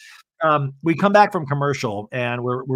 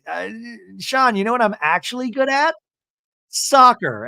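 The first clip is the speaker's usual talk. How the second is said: high-pitched mock boast; Angie, showing off; 8 semitones higher than usual. Angie bragging to Sean, high mock boast. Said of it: "and she's like".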